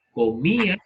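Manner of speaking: Comía with the í stressed and separate from the a. Shown as a demonstration. Teacher giving students an example, Comía stressed on the í. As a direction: lean on the í in Comía: co-MÍ-a. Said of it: "acento en la I".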